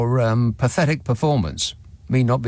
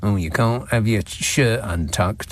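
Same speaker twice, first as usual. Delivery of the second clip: mock golf stickler; 3 semitones lower than usual. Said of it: "rules that the golfists keep coming up".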